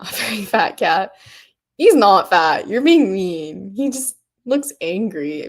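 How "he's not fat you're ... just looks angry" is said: loud, playful protest; mock indignation. Streamer defending a viewer's cat, playfully indignant. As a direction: leap to the cat's defence, mock offended.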